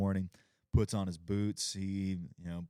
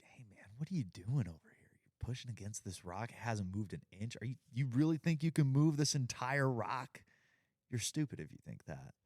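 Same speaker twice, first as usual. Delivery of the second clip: sneering devil; 4 semitones higher than usual. Retold or imitated. Devil taunting the man.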